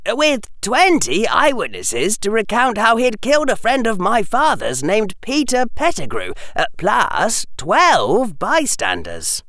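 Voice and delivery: put-on high, earnest boy's voice; serious. A narrator's reading. Harry recounting Black's capture to Hermione, serious. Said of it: "his voice serious as he said it".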